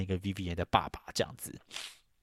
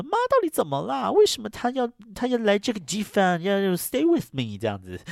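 much higher, urgent and exasperated; agitated question; 12 semitones higher than usual. Retold or imitated. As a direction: press for an answer, voice climbing high. Daughter demands answer from grandmother.

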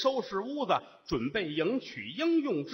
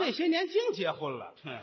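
sulky bride; 5 semitones higher than usual. Acted. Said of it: "你母亲顿足捶胸啊".

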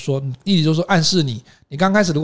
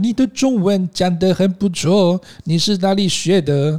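slow, over-enunciated mock politeness; 故意用奇怪腔调说话; weird put-on tone; 3 semitones higher, slower than usual. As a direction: speak to a foreigner in a silly exaggerated tone. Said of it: "故意用那个奇怪的腔调跟他讲说".

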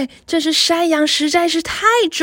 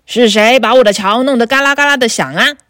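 loud, fast troll roar; hammed-up troll shouting at the goat; troll's roar; 5 dB louder, faster than usual. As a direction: bellow it from under the bridge. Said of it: "大妖怪吼道".

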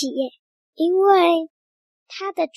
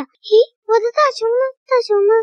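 higher, baffled questioning; puzzled searching; 6 semitones higher, 4 dB louder, faster than usual. Acted. Magician's assistant hunting for the missing bear, puzzled and higher. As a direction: wonder aloud where it went. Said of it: "他心里想".

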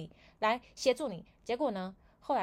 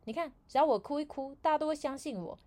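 higher, louder gloating boast; a higher, louder scheming brag; smug coworker quote; 7 semitones higher, 4 dB louder than usual. Retold or imitated. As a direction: show off how easy the trick is. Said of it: "他跟我们有一个部门的同事说".

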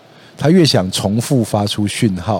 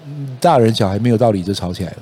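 ordinary talk

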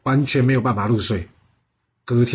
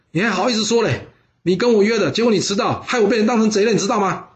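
higher, huffy reproach; a mild mock grumble at a late friend; indignant scolding; 5 semitones higher than usual.

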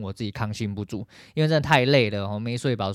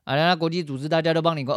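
ordinary talk

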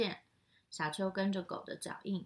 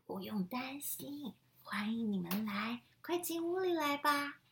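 warm grandma; 4 semitones higher than usual. Acted. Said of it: "奶奶笑着回答".

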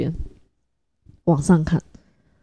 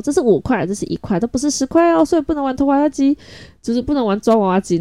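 put-on higher, sing-song voice for a small child; mother explaining to child; 7 semitones higher than usual. Mother explaining to her son why he can't play, in a high, patient voice. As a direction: patiently spell it out to a toddler, pitched up.

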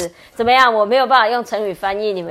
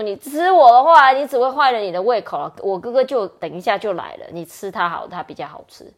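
retelling the goat; 4 dB louder than usual. Retold or imitated. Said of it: "第二只Billy Goat就说：".

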